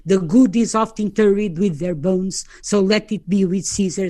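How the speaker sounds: slow, solemn Shakespeare recital in English; Mark Antony's speech. Shown as a demonstration. Presenter reciting Antony's funeral speech, slow and solemn. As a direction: declaim it slowly to the crowd. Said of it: "Agora este".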